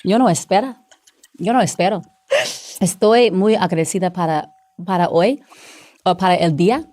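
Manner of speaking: Spanish spoken in a Mexican accent. Shown as a demonstration. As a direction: introduce yourself in Mexican Spanish. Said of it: "My favorite accent is Latin, is, is Mexican".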